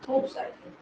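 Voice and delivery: name breathed out unvoiced; a quick murmur to herself; whispered aside. Real, not acted. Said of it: "name said under breath". (फुसफुसाकर नाम)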